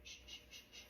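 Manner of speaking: put-on soft breathy shh to settle a baby; whispered shushing. Mom shushes the baby while the toddler is nearby, whispered.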